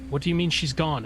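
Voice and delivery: mildly pleading questions. Acted. Spirit asking Rogar where Clara is, pleading. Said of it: "he's pleading with you".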